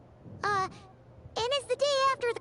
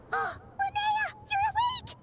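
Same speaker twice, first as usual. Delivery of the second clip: gasping, higher, overjoyed she's awake; relieved surprise; 9 semitones higher, slower than usual. Acted. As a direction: burst out in high relief. Friend wakes, gasps in relief.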